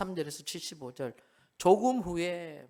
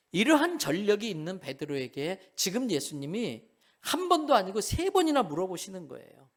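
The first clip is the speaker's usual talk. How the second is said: normal talking voice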